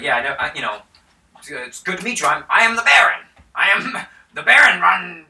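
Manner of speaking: a vain noble greeting his guests; the Baron. Acted. A lightly voiced pompous baron. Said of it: "so he's like".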